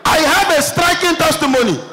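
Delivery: shouted testimony. Retold or imitated. Church member announcing a striking testimony, imitated calling out. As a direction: call out to the pastor as an eager testifier. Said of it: "Person just shout".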